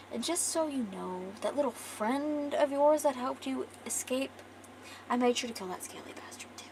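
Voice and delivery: hushed, taunting villain aside; soft, sinking into a near-whisper to taunt; menacing gloat. Acted. Villain gloats to his captive.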